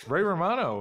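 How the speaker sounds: lightly voiced Ray Romano nasal whine; a quick nod to Ray Romano's voice; Ray Romano impression. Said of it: "a great Ray Romano impression".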